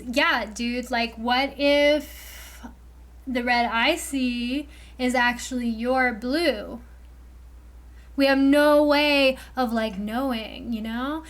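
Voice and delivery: lazy, dreamy stoner drawl; musing like a stoned dude. Pretend. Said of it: "I'm doing, like, this stoner voice for this".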